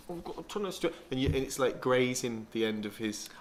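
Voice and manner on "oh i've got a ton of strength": higher, mock feeble take on I've got a ton of strength; mocking imitation. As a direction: mimic him as small and weedy. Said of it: "you're saying it like this".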